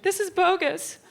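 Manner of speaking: high huffy mom voice; imitating her annoyed mom; mom complaining. Mom complaining to her daughter, high.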